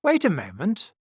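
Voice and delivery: loud, high interruption; interrupting. A narrator's reading. Strong man interrupts the others, loud and sudden. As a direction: cut in sharply and loudly. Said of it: "interrupted the strong man".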